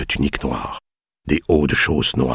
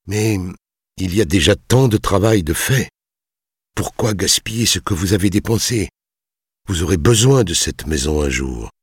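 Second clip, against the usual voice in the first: reasoning, higher-pitched plea; calm effort; 6 semitones higher than usual. A narrator's reading. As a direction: reason with him, keeping composed. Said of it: "il répondit d'un ton calme". (ton calme et raisonnable)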